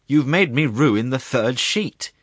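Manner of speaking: high, loud, drawn-out lament; tearful wail. A narrator's reading. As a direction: wail slowly as if near tears. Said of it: "in a tearful voice".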